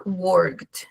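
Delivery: worked lento, «workt» en una sílaba; E muda. Shown as a demonstration. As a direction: marca la K y la D final de worked. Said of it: "suena la K y no la E". (worked sin E, con K audible)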